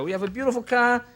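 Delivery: lightly put-on East Coast salesman; hint of a smooth car salesman; Cadillac salesman. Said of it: "Cadillac salesmen are different".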